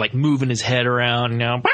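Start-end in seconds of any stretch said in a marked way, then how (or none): 1.6-1.7 mock owl screech. Imitating the owl's sudden movement.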